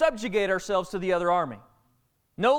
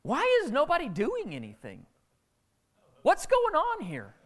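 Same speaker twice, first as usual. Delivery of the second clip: much higher, puzzled, last question slowed; a kid baffled that no soldier moves; bewildered David; 7 semitones higher than usual. Retold or imitated. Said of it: "kinda walking around going".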